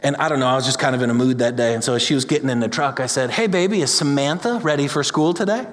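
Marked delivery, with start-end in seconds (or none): 3.3-5.7 higher, playful sing-song dad; dad playfully baiting his daughter; teasing dad. Retold or imitated. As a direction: tease your little girl on purpose.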